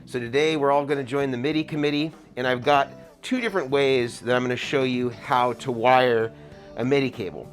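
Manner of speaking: muffled through an N95 mask; talking through a mask; through a face mask. Real, not acted. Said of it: "an N ninety-five mask".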